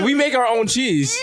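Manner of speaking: high, drawn-out mock outrage; hammed-up loftiness breaking into laughter; indignant deli worker. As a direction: proclaim it as if deeply offended. Acted snooty deli staff indignant.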